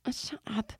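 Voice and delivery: flattered brush-off under the breath; mock dismissive. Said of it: "I'm like".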